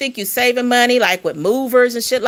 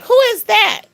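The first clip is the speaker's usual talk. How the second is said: surprised question; 4 dB louder than usual. Retold or imitated. Ghost lady asks, quoted.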